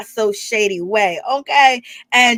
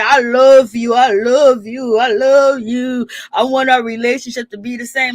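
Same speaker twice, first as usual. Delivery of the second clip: mocking drunk pleading; 5 dB louder than usual. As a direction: overdo the drunk begging, stretching each I love you.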